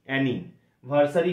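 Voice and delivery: অ্যানি, ভার্সারি said in two separate parts; broken into syllables. Shown as a demonstration. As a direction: pause between অ্যানি and ভার্সারি, as if teaching spelling. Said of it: "ভেঙে ভেঙে উচ্চারণ করতে হবে". (অ্যানি আর ভার্সারি ভেঙে ভেঙে উচ্চারণ)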